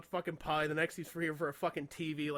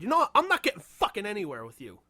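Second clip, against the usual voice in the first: retold angry outburst; 3 semitones higher, 6 dB louder than usual. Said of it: "I just got so pissed off".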